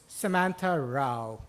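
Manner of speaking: slow, careful reading of an unfamiliar name; announcer reading a name. Retold or imitated. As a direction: sound out Samantha Rao slowly, unsure of the name. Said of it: "looks up at his notepad and says".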